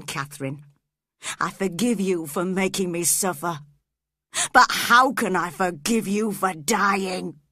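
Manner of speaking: grief rising to anguish; Heathcliff's voice. Acted.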